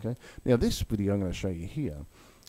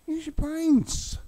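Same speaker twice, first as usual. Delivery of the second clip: angry shout; 6 dB louder, much slower than usual. Real, not acted. Ranting at crypto maximalists.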